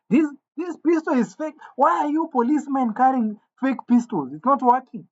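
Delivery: acted-out bewildered accusation; baffled complaint. Boy confronts policeman about a fake pistol, incredulous.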